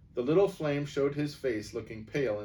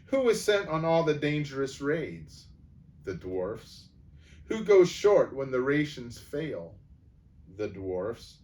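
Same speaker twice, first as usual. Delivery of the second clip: bitter dwarf; 2 semitones higher than usual. Acted. Angry dwarf complaint.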